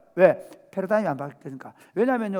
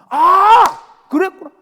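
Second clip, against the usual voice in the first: elated realization; 11 semitones higher, 14 dB louder, slower than usual. Retold or imitated. 깨달은 제자들의 감탄.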